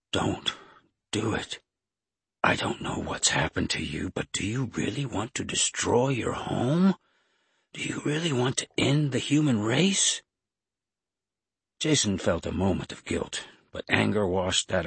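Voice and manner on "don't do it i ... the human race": weak, pleading voice. A narrator's reading. Carter pleading with Jason to spare humanity, weak voice. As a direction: plead feebly, questions rising high. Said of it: "his voice weak".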